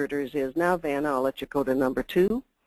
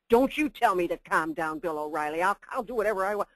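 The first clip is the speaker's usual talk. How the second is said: mock indignant guest. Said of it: "And the guest said".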